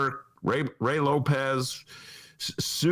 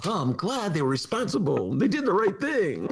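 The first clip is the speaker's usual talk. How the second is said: mock praise; 8 semitones higher than usual. Mocking the aldermen's line.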